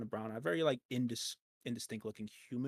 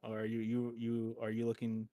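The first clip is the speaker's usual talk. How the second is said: normal talking voice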